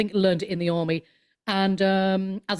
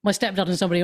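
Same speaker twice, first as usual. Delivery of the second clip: normal talking voice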